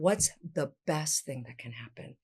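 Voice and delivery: "What's the best thing that can happen?" said slowly and softly; slow, questioning. Shown as a demonstration. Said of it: "I love asking questions".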